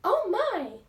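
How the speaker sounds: loud high shocked exclamation; startled cry. A narrator's reading. Missus Kidd sees debris fall, startled loud cry. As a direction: shriek it as plaster falls. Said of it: "Missus Kidd cry out".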